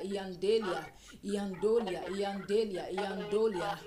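fervent tongues. Acted. Pastor rousing the congregation to pray, fervent loud tongues. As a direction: build into an urgent chant of tongues.

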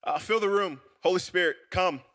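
unhurried, earnest public prayer. Real, not acted. Pastor prays with the room as he opens, prayer. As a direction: pray aloud for the congregation, measured.

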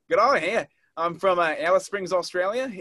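lightly put-on Australian accent. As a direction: slip into an Australian greeting. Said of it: "I switched over to my accent".

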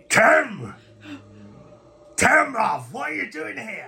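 high-pitched cry of recognition; high, affectionate surprise; astonished friend. Acted. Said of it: "And he goes".

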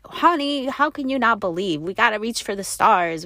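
retold mild exasperation, starting high and settling; disbelieving tone. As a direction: urge him as if amazed he doubts. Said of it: "what my tone of voice was like".

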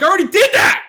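high, loud exasperated yell; half-acted indignant outburst; retold yell. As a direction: shout it like you've had enough. Retold outburst at wine sellers.

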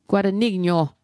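Guadagnino said the Italian way, gwah-dah-NEEN-yo; Italian accent. Shown as a demonstration. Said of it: "I have to say with an Italian accent".

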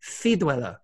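Ciruela with a lisped c, "thee-rwela". Shown as a demonstration. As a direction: say Ciruela with th at the start. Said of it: "With a lisp".

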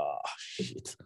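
a caught-out hush; voiceless whisper of dismay; whispered oh shit. Retold or imitated. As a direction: whisper it under the breath. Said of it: "Dan denk ik".

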